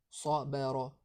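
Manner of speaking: sabara avec un s emphatique et un a grave; bonne prononciation. Shown as a demonstration. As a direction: sabara dit avec le s épais du ṣad. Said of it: "mais plutôt sa, sabara". (sabara prononcé grave, comme modèle)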